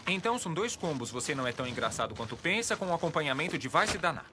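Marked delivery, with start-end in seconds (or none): 1.1-4.3 sarcastic. Acted. Worker snaps back at customer.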